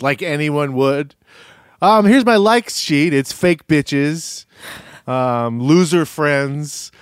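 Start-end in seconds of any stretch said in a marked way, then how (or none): 1.8-6.9 sarcastic mock list. Mocking a cast member's likes list to her co-host, slow and sarcastic. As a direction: drawl it out like a snide checklist.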